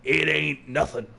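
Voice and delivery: lightly played Brooklyn tough guy; Brooklyn accent. Don Tigre reassures Violetta, Brooklyn accent. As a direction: wave it off in Brooklyn style. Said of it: "you gotta do a Brooklyn accent".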